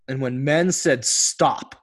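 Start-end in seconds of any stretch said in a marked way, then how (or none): 1.0-1.8 firm but calm, controlled stop; open-hearted stop. Retold or imitated. Men in an exercise speaking from open hearts, calm and firm. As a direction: say it steadily, heart open and engaged. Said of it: "with their hearts open and engaged".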